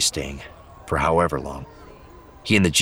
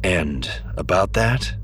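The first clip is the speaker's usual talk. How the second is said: slow question, left hanging on "that"; tentative, unhurried inquiry fading on "that"; trailing-off question; slower than usual. A narrator's reading. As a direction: draw out "And about that" and let it trail away. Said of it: "He let the question trail off".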